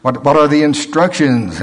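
pleading prayer. Retold or imitated. Preacher re-enacting his prayers for guidance, pleading loudly. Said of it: "You pray".

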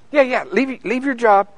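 God doubling down on his command; insisting God. Retold or imitated. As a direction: press the order home, no arguing. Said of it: "he'll go".

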